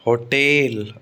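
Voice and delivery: होटल as "ho-TEL", long second syllable; stress on second syllable. Shown as a demonstration. Teacher introducing an exception, होटल stressed on टेल. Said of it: "टेल पर stress आता है".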